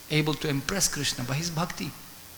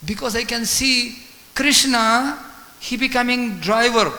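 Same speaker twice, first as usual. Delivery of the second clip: slow, higher and louder, overcome with devotion; tearful rapture; 6 semitones higher, 7 dB louder than usual. Acted. Brahmana explaining his tears to Mahaprabhu, slow and rapturous. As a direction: let the wonder swell as you speak.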